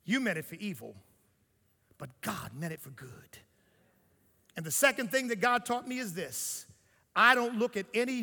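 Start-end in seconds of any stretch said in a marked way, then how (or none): 0.1-3.4 low, hushed, measured answer; Joseph. Acted. Forgiving his brothers, quiet and low. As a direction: drop right down, quiet and calm.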